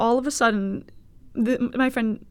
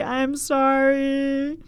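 slow sincere sorry; 4 semitones higher, much slower than usual. Real, not acted. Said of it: "I mean it when I say".

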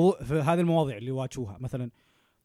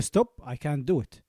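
slow firm refusal; much slower than usual. Retold or imitated. Refusing pressure, acted quote.

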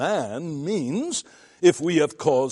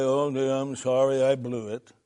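offhand throwaway apology, no weight; half-hearted mumble; 2 semitones lower than usual. Retold or imitated. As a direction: toss off a careless little sorry. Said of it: "mumble in some half-hearted way".

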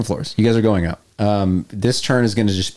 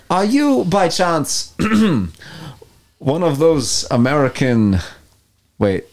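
German radio villain; 3 semitones higher than usual. Acted. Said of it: "I can speak in normal German".

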